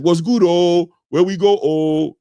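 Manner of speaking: playful put-on Jamaican lilt with an added o; tossing on a jokey Jamaican accent, tacking an o on each line; mock Jamaican accent. Host teasing a Nigerian viewer in a mock Jamaican accent. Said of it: "I try to do it with the Jamaican accent".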